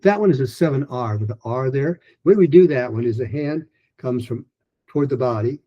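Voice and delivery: ordinary talk, nothing marked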